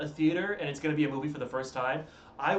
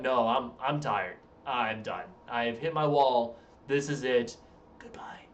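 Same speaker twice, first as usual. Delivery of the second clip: tired sign-off; 5 semitones lower than usual. Acted. Acting out being tired and done.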